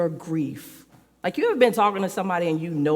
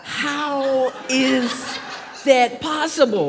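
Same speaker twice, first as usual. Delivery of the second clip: higher, drawn-out baffled question; incredulous retort; 6 semitones higher, much slower than usual. Acted. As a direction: act out a child who can't believe it. Child's baffled reply to parents.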